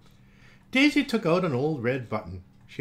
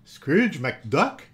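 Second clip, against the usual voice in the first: surprised cry; 3 semitones higher, 6 dB louder than usual. Acted. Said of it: "cried Goofy the sheriff".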